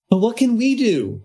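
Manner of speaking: high, worried witch voice; a timid witch pleading; anxious witch. Acted. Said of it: "another questioned".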